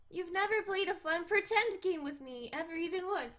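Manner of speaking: high, pouty complaint; whiny cat girl. Acted. Cat girl complaining he never plays pretend, pouty. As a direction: whine it like a bored kitten. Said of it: "I should emphasize the cat puns".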